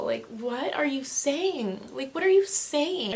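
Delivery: acted disbelief, stretching the words; exasperated. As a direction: demand it with mounting exasperation. Exasperated reaction to mother's comments.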